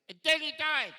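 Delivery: loud, high blurt of the ending; blurted punchline. Acted. Dad loudly blurting the ending of his story. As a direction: blurt it out like it's obvious.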